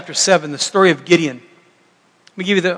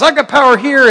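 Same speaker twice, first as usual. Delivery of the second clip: higher, louder imitated spouse claiming power; mock quarrel; 6 semitones higher, 6 dB louder than usual. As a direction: play a spouse asserting control. Acted family power quarrel.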